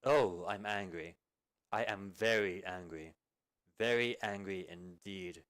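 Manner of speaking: slow, low, simmering menace; measured threat to a deserter; cold anger. Acted. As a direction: let the anger seep out slowly. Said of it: "Are you angry?".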